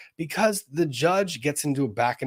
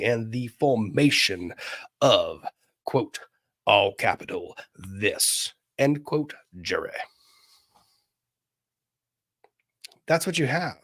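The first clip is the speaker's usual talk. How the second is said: put-on Southern Virginian accent. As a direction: play it up as a Southern Virginian attorney. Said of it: "I cannot do the rest of the show in this accent".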